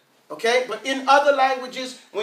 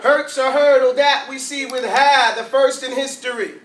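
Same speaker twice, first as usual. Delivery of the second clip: poem lines with emphatic H words; demonstrated rhyme for the class; teacher's mnemonic poem. Shown as a demonstration. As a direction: recite it as a punchy rhyme. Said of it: "You know I made a poem".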